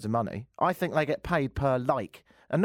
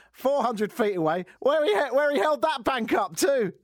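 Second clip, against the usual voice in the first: high-pitched disbelief; high, excited amazement; incredulous outburst; 10 semitones higher, 3 dB louder than usual. Real, not acted. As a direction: blurt the punchline in a high, incredulous cry. Incredulous punchline of robber story.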